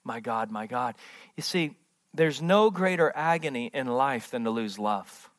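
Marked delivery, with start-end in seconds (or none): 0.0-1.0 much softer and lower, almost broken; hushed cry. Acted. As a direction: let the words fall away in grief. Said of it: "look at what he's crying".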